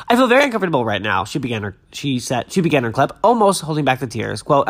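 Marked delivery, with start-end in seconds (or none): 0.1-1.2 dramatic reading. Pretend. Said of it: "add a little dramatic flair to my readings".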